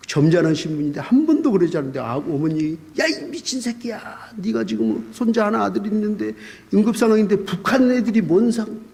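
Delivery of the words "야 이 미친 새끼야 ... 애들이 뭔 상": mock scolding. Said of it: "막 하면서 욕을 하시더라고요".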